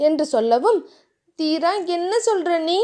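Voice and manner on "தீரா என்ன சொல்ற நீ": bewildered. Acted. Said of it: "புரியாமல் கேட்டாள்".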